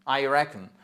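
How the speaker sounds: "reckon" joined up, weight on RECK; first-syllable stress. Shown as a demonstration. Teacher modelling the joined word, "reckon" stressed on RECK. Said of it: "c'est toute la première syllabe".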